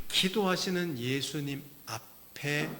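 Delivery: ordinary talk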